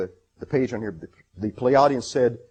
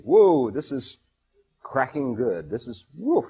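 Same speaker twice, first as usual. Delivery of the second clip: real excitement; 2 semitones higher, 4 dB louder, slower than usual. Real, not acted. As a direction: marvel out loud at the text. Thrilled by a prophecy passage.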